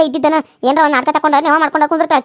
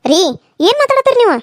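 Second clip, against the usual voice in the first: shocked protest; 3 semitones higher than usual. Acted. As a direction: cry out in disbelief at him. Wife objects to husband's words.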